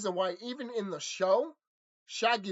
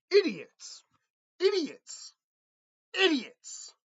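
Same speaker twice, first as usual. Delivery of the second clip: mocking high voice; 8 semitones higher, much slower than usual. Repeated insult, high far.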